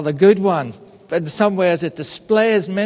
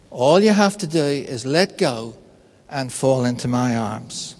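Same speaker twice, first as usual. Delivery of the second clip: voice of God; 5 semitones lower than usual. Retold or imitated. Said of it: "the voice says to him".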